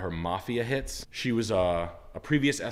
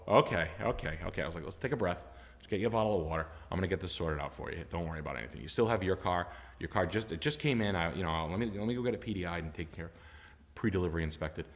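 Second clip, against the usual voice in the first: soft, low reassurance, acted out; calming; 4 semitones lower, 6 dB quieter than usual. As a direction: talk a distressed customer down. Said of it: "you need to calm down".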